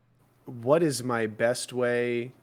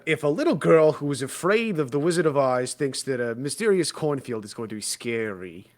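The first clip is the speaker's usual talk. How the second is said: dry, mocking sarcasm; sarcastic; 3 semitones higher than usual. Real, not acted. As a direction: say it with a sarcastic bite. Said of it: "that was a little too sarcastic".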